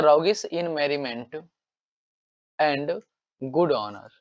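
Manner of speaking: very slow, each word apart; slow reading. Shown as a demonstration. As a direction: read it out like dictation. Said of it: "कहता है". (अंग्रेज़ी वाक्य बहुत धीरे पढ़ना)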